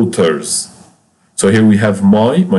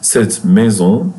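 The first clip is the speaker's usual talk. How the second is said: "cette maison" said slowly, syllable by syllable; slow it down so they can copy "cette maison"; slow careful "cette maison" for learners; slow model repeat; slower than usual. Shown as a demonstration. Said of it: "On dit".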